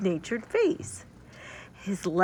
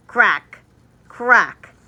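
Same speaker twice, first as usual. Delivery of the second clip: two sharp, louder cracks; 9 dB louder than usual. Acted. Nuts crack in Fritz's hands, loud sharp cracks. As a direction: snap out each crack. Teeth break in story.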